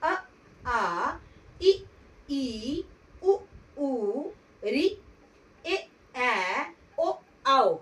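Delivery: each Hindi vowel अ, आ, इ, ई, उ, ऊ, ए, ऐ, ओ, औ said distinctly with a pause after it; स्वरों का साफ़ उच्चारण; careful vowel recital. Shown as a demonstration. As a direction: sound out every vowel clearly for the class, one at a time. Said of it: "इसको हम बोलेंगे कैसे?".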